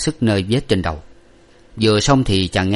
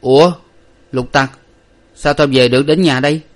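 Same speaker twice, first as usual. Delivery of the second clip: surprised question; 6 semitones higher, 6 dB louder than usual. A narrator's reading. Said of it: "thì hỏi rằng".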